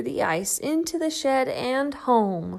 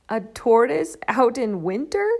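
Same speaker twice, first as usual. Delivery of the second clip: duck voice; 6 dB louder than usual. Acted. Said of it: "quacked the duck".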